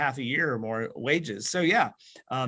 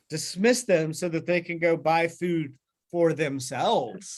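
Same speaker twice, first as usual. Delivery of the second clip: slow line, leaning on "themselves" at the end; stress on THEMSELVES; 2 semitones higher than usual. Retold or imitated. Teacher quoting the disciples to set up a contrast, "themselves" stressed. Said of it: "this contrast between themselves".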